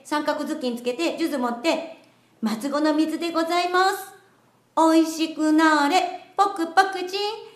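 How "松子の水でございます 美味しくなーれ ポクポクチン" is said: sugary maid cafe greeting. Pretend.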